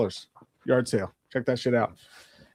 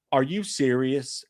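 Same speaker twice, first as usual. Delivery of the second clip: slow, lightly voiced judgmental lady; judgmental old lady; slower than usual. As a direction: drag it out with light disbelief.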